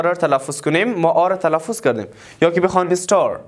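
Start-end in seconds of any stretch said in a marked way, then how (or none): 2.9-3.4 "star" with a sounded final R; R pronounced. Shown as a demonstration. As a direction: end "star" on a clear R. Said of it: "We pronounced R".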